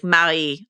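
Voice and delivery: Marie said the French way, first syllable open; French pronunciation. Shown as a demonstration. Host spelling out a French woman's name, French pronunciation. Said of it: "it's, like, Marie in French".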